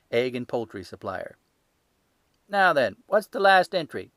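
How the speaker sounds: a stall keeper showing off his ledger, loud and sure; gruff salesman. Acted. Salesman crowing.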